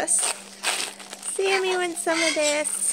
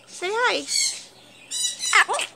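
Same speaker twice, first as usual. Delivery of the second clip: higher, softer sing-song; soft high coax; 11 semitones higher, 4 dB quieter than usual. Real, not acted. Owner softly coaxing her parrot to talk. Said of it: "coaxing parrot to say hi".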